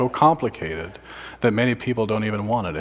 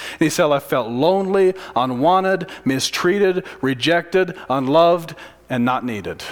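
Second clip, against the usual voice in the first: impassioned testimony; 5 semitones higher, 5 dB louder than usual. Retold or imitated. Inmate testifying before seventy men.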